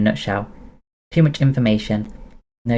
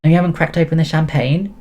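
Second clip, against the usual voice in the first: excited squeal; 6 semitones higher than usual. Acted. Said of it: "she squealed".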